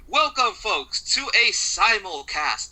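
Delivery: slow, stretched hype on simulcast; slow, drawn-out announcer hype on "simulcast". Acted.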